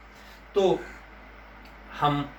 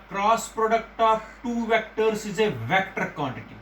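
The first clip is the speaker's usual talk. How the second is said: very slow, word by word; slow dictation; much slower than usual. Shown as a demonstration. Teacher making students memorise the term, very slowly. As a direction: spell it out slowly for the class. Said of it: "ये याद रखना".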